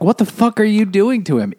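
high, fast mock shriek of protest; outraged mom. Mom confronts the rescuer before smacking her, fast mock outrage. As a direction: imitate a mother lashing out.

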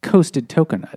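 coasted coconut with the K sound first; spoonerism. Shown as a demonstration. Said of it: "he would probably instead pronounce it".

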